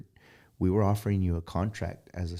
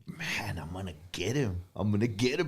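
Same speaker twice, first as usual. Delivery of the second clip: scheming whisper; 8 dB quieter than usual. Retold or imitated. Plotting a prank.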